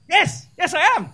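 put-on a light Ghanaian accent, pleased. The Ghanaian man in the toilets answering, a hint of Ghanaian accent. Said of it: "I can recognise the Ghanaian accent".

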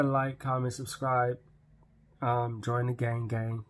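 partly muffled by hand; speaking with fingers on lips. Real, not acted. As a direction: hand resting against mouth. Seen 0: hand at chin, fingers repeatedly touch or cover lips while speaking.

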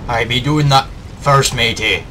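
lightly voiced pirate, "I be"; a hint of a pirate captain. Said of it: "I can't keep up this voice".

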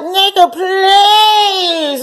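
dismissive brush-off. Retold or imitated. To the cold-acting man, a high mocking brush-off. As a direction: wave him off with mock disgust. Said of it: "you know, and like".

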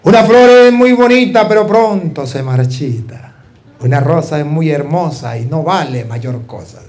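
a heartfelt prayer in verse; recited prayer poem. Retold or imitated. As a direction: offer the verse like an ordination prayer. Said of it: "le dije unas palabras al Señor".

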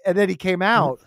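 ordinary talk, nothing marked

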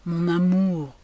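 plain reading voice

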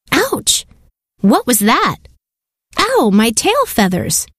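a high mock squawk of pain on "Ouch"; screeching seagulls. Seagulls chased by the crab, lightly squawking in alarm. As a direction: yelp like a pinched gull. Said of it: "the seagulls screeched".

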